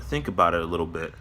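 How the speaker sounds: talking with food in mouth; mouth full. Real, not acted. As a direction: speak around leftover food in the mouth. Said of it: "I have left-, leftover food in my mouth".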